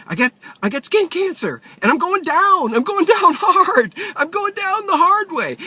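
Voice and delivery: hammed-up doom, slowed and wailing; panicking. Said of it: "So I'm panicking in the doctor's office".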